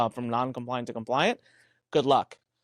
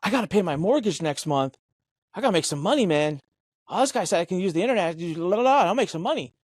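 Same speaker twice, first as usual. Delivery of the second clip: higher, carefree sing-song of a naive buyer; imitating desperate buyer; 4 semitones higher than usual. A down-market buyer talking himself into it, lightly mocked and higher. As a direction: play a broke buyer dreaming of easy cash. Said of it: "the person you're talking to is like".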